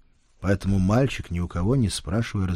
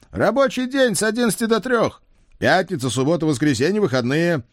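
excited; 10 semitones higher, 5 dB louder than usual. Acted. Men dictate demands.

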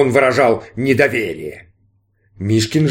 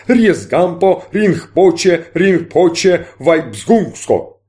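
mock mystic incantation; magic incantation; 5 semitones higher, much slower than usual. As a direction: chant the spell, slowing at the end. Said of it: "произнёс".

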